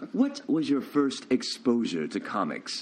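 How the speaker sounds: slow, grave host voice; mock serious host. Host asking the guest in a slow mock serious voice. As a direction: ask it slowly like a solemn TV host. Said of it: "How am I supposed to answer seriously".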